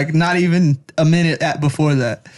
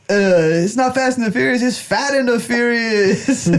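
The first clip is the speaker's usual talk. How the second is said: put-on raised, playful Mexican-accented punchline; 6 semitones higher than usual. Mexican across the street teasing a driver, Mexican accent. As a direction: tease in a mock Mexican accent. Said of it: "I love doing Mexican accents".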